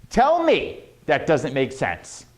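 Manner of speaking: slow, with TELL ME stretched out; deliberate challenge, TELL swooping up; emphatic repeat. Shown as a demonstration. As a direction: lean hard on "Tell me". Repeats line slower for effect.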